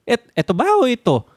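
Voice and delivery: high-pitched mock confusion; Bebe. Confused viewer asking partner about a missed line, high imitation. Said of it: "Laging itatanong sa akin ni Bebe".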